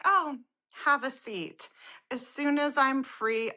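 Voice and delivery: stalling salesperson. Retold or imitated. Salesperson telling her to wait, mock-polite.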